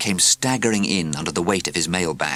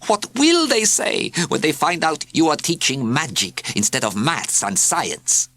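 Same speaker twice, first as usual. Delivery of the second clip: mewing cat; 9 semitones higher than usual. A narrator's reading. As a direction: drag it out smugly. Cat voice continues.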